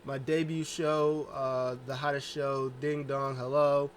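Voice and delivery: Bayley playing an excited show host; hosting excitedly. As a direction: welcome the crowd like a hyped host. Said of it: "She's like".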